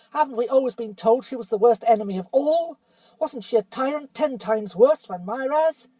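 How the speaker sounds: lightly voiced bitter dwarf; sneering dwarf. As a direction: needle Caspian with rising scorn. Nickabrick argues for the witch.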